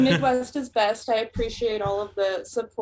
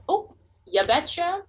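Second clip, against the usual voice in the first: put-on Minnesota accent; 6 semitones higher than usual. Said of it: "colloquial sayings such as".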